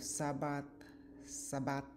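Sabbath clearly spoken, twice, as an English spelling variant; saying Sabbath. Shown as a demonstration. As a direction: read "Sabbath" out as one of the variants. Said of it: "several variations in spelling and pronunciation".

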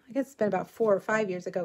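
normal talking voice

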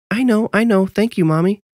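put-on high, eager child voice; impatient little boy. A narrator's reading. Boy interrupting his mother's warning, impatient. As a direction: cut in as an excited young son.

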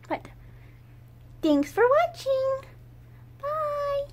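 high cooing sign-off. Real, not acted. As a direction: wave goodbye in a sweet voice. Cooing goodbye to kittens.

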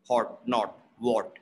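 "hot, not, what" with one short open rounded O; "not" with a short O, no glide. Shown as a demonstration. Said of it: "you just round your lips".

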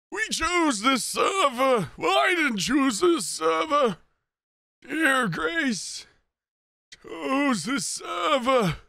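slow, lightly voiced grumbling elder; a hint of a cranky codger; old man voice. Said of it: "This voice is evolving".

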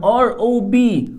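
letters spelled out slowly; teacher dragging out each letter; slow spelling. Shown as a demonstration. Teacher spelling B O N slowly for students. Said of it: "تتدرب على الصوتيات".

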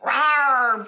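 a lightly voiced, loud dragon roar; dragon bellow. Dragon bellowing in the battle. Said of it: "bellowed the dragon".

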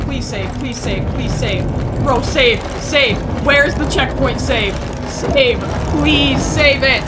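loud, insistent begging; urgent pleading. Real, not acted. Gamer begging for a checkpoint save, loud desperate plea. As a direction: shout the plea, stretching the last one.

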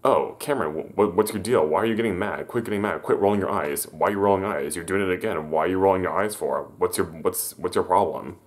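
imitating a nagging, mildly heated scolding; mock exasperated needling. Friend nags him for rolling eyes, mildly heated scolding. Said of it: "getting on my case for having attitude".

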